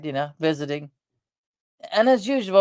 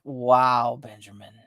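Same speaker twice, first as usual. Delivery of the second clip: dumbfounded hush; 5 semitones lower, 3 dB quieter, much slower than usual. Retold or imitated. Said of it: "And I was like".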